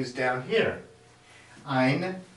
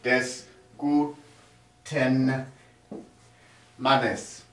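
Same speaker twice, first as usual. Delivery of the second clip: slow careful model; slower than usual. Shown as a demonstration. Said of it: "that's the car of the good man".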